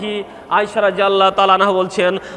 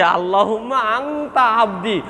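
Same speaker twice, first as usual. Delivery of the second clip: overjoyed cry, retold; 2 semitones higher than usual. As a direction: call out to God, stretching the words. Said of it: "সে খুশি হয়ে বলছে".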